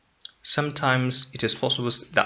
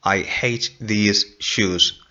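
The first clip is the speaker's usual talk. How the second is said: slow correct form; slower than usual. Shown as a demonstration. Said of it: "the person should say".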